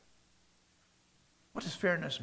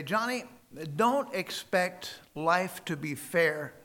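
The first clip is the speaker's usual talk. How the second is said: slow, drawn-out fatherly warning; a dad spelling out a hard truth slowly; father's slow warning; 4 dB louder, slower than usual. Retold or imitated. Dad warns his teenage son, slow and firm. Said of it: "That's the way he said it".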